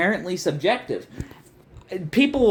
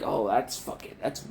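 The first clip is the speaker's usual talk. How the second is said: mock snob; 5 semitones lower than usual. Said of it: "be like".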